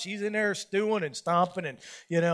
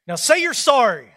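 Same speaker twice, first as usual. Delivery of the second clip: imitating wife; 3 semitones higher, 6 dB louder than usual. Wife voiced, laughing.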